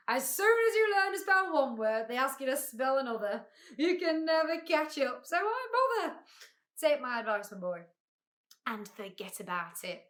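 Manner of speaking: blustering advice, high then dropping; pompous humbug, dismissive. A narrator's reading. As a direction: lecture the boy self-importantly. Humbug advises the boy.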